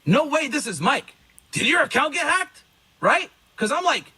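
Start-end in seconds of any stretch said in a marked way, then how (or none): 0.0-2.6 retold disbelief, slowly rising in pitch; higher-pitched, incredulous questioning; shocked disbelief. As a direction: act out being stunned by the news. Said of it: "this is how shocked I am".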